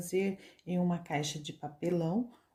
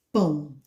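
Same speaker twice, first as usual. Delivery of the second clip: "pão" in one sustained, lower beat; a single unbroken "pão"; one single syllable; 4 semitones lower, 4 dB louder than usual. Shown as a demonstration. Teacher shows the mouth opens once, "pão" as one syllable. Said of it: "Você abre só uma vez a boca".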